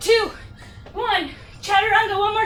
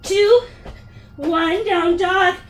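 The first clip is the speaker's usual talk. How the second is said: energetic count; much slower than usual. Real, not acted. Coach counting down hops.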